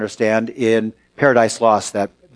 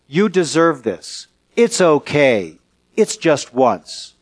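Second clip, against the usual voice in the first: tempter's voice; slower than usual. Pretend. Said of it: "His voice says things like".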